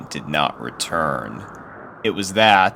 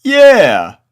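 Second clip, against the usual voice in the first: put-on much higher, louder, huffy kid; indignant colt Snails; 15 dB louder than usual. A narrator's reading. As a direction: back up your friend loudly. Snails joins in.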